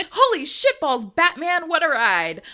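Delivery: a clean, lively retake with Batman said right; proper second take. Real, not acted. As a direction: nail Batman clearly on the retry. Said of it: "So, take two".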